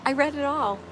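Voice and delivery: loud, high, laughing; excited laughing shout. Real, not acted. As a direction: call it out through laughter. After laughing at spam trick.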